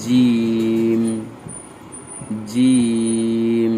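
জিম drawn out, firm and strong; জিম pronounced with force; Arabic letter জিম said hard. Shown as a demonstration. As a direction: press জিম hard and hold it. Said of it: "শক্ত করে".

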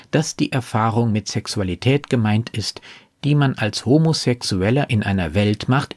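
ordinary talk, nothing marked

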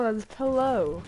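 "pillow" drawn out as PEL-oh; pellow pronunciation. Shown as a demonstration. Citing a commercial as proof, "pillow" slowly as PEL-oh. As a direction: slowly spell out "pillow" by ear, PELL-oh. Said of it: "Like they say in commercial".

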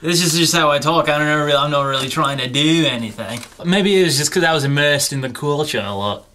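put-on understated Australian accent, casual; fake Australian accent. Claiming it's how he always talked, mild Australian accent. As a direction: insist in a light Aussie twang that this is normal. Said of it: "you have a distinctly Australian accent right now".

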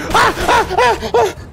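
short, very high shrieks; repeated high yelps of panic; panicked screams. Real, not acted. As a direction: scream in bursts under attack. Attacked in the game.

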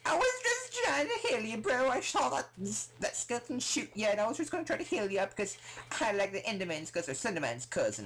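very high, loud squealed pleading; mock protest. Player explaining to an attacking mob, high frantic protest. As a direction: whine it in a high, put-on voice.

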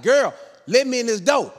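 high, insistent mock demand; exasperated demand. Husband locked out by wife, exasperated demand. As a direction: demand it through a closed door.

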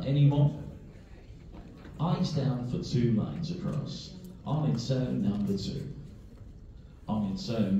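steady sing-song number calling; bingo caller. Acted. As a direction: call each number out to the hall.

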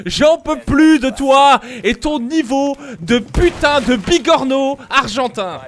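slow, loud furious rant; angry ranting. Real, not acted. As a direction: spit out every word in anger. Venting rage at teammate.

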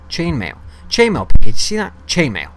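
high, loud thrilled cry; excited shout. Real, not acted. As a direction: show off the find to Piggy. Excited at chainmail drop.

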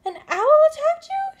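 high breathless whisper of alarm; shocked whisper. Acted. Mother Bat hearing of the owl, whispered shock. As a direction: gasp the question. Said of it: "she said".

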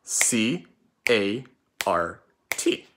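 letters spelled out slowly; spelling aloud. Shown as a demonstration. Teacher spelling cart letter by letter for pupils. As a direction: spell each letter slow and clear. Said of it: "Let's spell it".

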